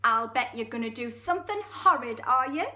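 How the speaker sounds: loud suspicious Geordie, tag question leaping up; Geordie hippo. Acted. Hippo suspecting horrid plans, suspicious Geordie. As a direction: accuse in a Geordie lilt. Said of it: "It's really Geordie".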